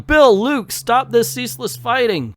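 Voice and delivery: high, stiff, theatrical cry to stop; stilted comic-book plea. Acted. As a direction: ham up a prim damsel's plea. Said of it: "she's yelling".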